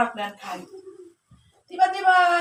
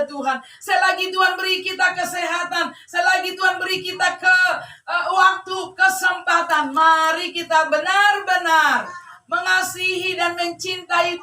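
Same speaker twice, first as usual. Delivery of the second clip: raised, insistent preacher delivery; fervent preaching; 6 semitones higher, 4 dB louder than usual. Real, not acted. Preacher urging the congregation to love God, fervent preaching. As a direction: press each phrase home to the congregation.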